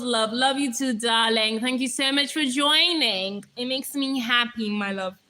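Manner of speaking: imitation of a gushing ASMR streamer; mock ASMR sweet-talk. Streamer imitates thanking a viewer for joining, mock ASMR voice. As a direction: put on a drawn-out lovey greeting. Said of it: "A S M R type voice".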